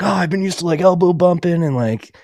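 high mock voice of the repairman; a hammed-up imitation of the South Jersey repairman; imitating the repairman. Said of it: "He's like".

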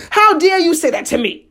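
high, indignant "how dare you"; retold shouting. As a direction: re-enact the shout at a held-back volume. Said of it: "this is what I'm shouting and saying".

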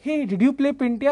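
excited imitation of a guy his age; eager peer. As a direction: imitate a young fan calling out in recognition. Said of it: "my age guy comes up to me".

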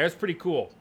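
cracking voice on a single word. Real, not acted. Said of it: "Did my voice crack?".

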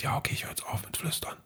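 unvoiced whisper, very soft; a calm, breathy assistant reply. Alexa whispering back that she'll stop whispering. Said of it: "in auch so einen Flüstermodus reingegangen".

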